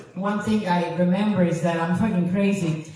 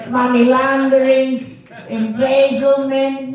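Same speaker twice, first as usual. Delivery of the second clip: loud, drawn-out listing, pitched up; mock interrogation; 4 semitones higher, 4 dB louder, slower than usual. Comic grilling an online date about partners in crime, mock interrogation. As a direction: stretch each crime out loudly.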